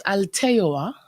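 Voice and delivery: "Alteoa" said slowly with the E stressed; accent on the E. Shown as a demonstration. Guest pronouncing the business name for the host, "Alteoa" stressed on E. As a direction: lean on the E in "Alteoa". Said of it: "I put the accent on the E for the pronunciation".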